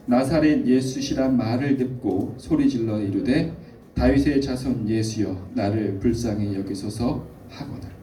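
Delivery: slow, measured verse reading; scripture reading. A narrator's reading. Pastor leading the congregation through the verse, measured reading. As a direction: read the verse out slowly for all to follow.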